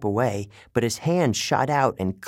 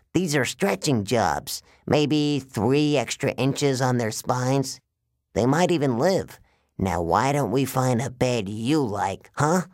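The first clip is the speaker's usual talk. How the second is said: slow, higher-pitched salesman giant; giant waterbed salesman villain; 3 semitones higher than usual. Acted. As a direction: reassure like a sinister salesman, drawing it out.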